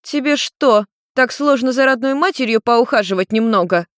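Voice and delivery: guilt-trip your son, suddenly sober; mother reproaching her son for not looking after her; reproachful mother. Acted. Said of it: "голос её прозвучал неожиданно трезво".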